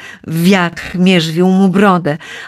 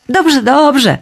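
a higher, brushing-off agreement; dismissive nodding; 7 semitones higher, 4 dB louder than usual. A narrator's reading. Ikar brushes off his father's warnings, higher and louder. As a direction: humour the old man, half listening. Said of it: "potakiwał Ikar".

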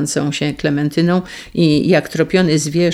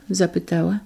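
usual speaking voice

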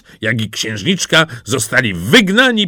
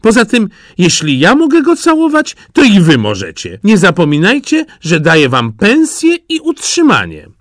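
high, loud bossy insistence; haughty princess overruling objections; imperious scolding; 10 semitones higher, 6 dB louder than usual. A narrator's reading. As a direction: lay down the law to servants. Princess bossily overrules her ladies.

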